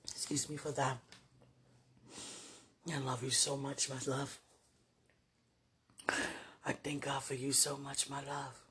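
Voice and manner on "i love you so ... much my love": soft tender murmur; sweet nothings. Real, not acted. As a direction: murmur lovingly, almost sleepy. Tender words to partner at night.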